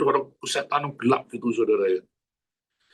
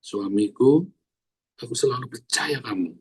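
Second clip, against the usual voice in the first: tenderly, as a model for wives; sincere model line. Shown as a demonstration. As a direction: say it gently to your husband. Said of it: "kamu harus bilang".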